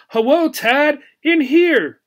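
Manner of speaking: high, excited call to get attention; eager little gerbil calling out. A narrator's reading. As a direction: shout for the boy to notice you.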